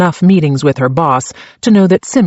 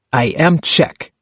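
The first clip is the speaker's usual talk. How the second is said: put-on Czech accent. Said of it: "his accent so thick".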